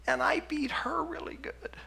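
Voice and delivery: hushed, breathy whisper of a guilt-ridden mother; whispered confession. Retold or imitated. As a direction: breathe it out like a shameful secret. Mother confessing abuse, crying.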